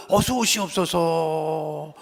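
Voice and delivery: slow, drawn-out courtly welcome; bow and welcome them in slowly; humble welcome. Retold or imitated. Welcoming a family member home, slow reverent greeting. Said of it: "이 뭐 이렇게 해서".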